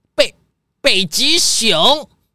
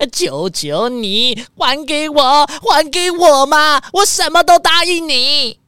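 pleading; 3 semitones higher than usual. Acted. Rich man begs for his cars.

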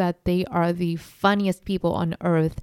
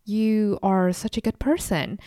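fake-polite thanks, starting much higher; mock polite gushing; 3 semitones higher than usual. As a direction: play the sweet child hiding disdain. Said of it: "Like, I would be like".

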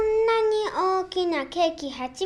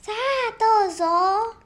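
kindly shopkeeper; 5 semitones higher than usual. Acted. Shopkeeper offers the cake.

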